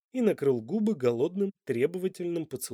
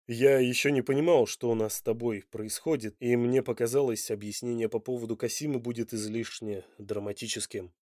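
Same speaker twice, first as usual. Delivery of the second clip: reluctant admission; 3 semitones lower than usual. Acted. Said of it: "с явной неохотой признался он".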